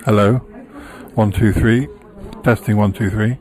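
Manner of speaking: mic test. Real, not acted. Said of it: "And now I'm not using it".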